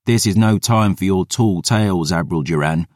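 a lightly voiced scoffing boy; mocking lad. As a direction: tease him as a young lad. Lad's voice.

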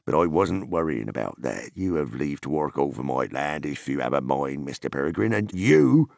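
lightly voiced farmer, slowing for the tease; teasing hobbit farmer. Farmer teasing Frodo about mushrooms, teasing farmer voice. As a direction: grant leave, then draw out the teasing.

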